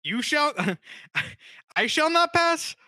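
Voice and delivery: high, loud, slow mob-boss wizard; drawn-out, hammed-up wizard shout; Gandolfini as Gandalf. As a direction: bellow the wizard's line like a TV mobster. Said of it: "done a James Gandolf Feeney bit".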